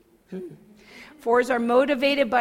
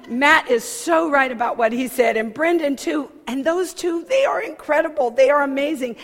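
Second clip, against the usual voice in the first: gushing, louder and higher in mock rapture; gushing praise; 3 semitones higher, 6 dB louder than usual. Telling her ministry partners, gushing loudly about their people. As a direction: pour out the praise like a starstruck fan. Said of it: "You know I talk like that".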